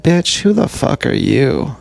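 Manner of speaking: mock confrontational comeback, lively swooping pitch; exaggerated retort. Speaker retelling to self a reply to Chelsea, exaggerated retort. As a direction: overplay the indignant challenge. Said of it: "I didn't say it like that".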